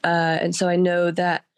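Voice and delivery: hoarse voice from a cold; sick voice. Real, not acted. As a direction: talk through a sore throat. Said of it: "I've been sick all week".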